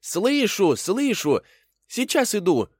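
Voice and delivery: high, loud rabbit call; eager high cry of I'm coming. Acted. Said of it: "крикнул".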